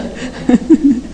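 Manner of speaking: laugh. Real, not acted. Laughs after confessing she sins too.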